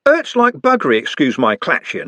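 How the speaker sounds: a pained city lad; Trev in pain. Acted. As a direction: wince through it. Trev voiced in read story.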